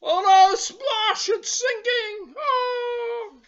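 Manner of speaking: put-on storyteller voices Lucky for children, high and eager; eager little bear. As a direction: play the bouncy toy bear itching to go out. Lucky's boat sinks.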